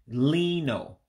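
lino said lee-noh; Igbo pronunciation. Shown as a demonstration. Teaching viewers the Igbo word for line, careful pronunciation. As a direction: draw out the ee in lino, ending on a round oh. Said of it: "I character has an E sound".

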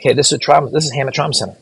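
lightly voiced hospital caller; trauma center caller. Trauma center calls the hospital, lightly acted urgent caller.

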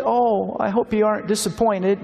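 preacher voicing Anne, anxious to please; girl's voice. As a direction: chirp it like an eager orphan girl.

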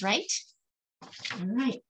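plain reading voice

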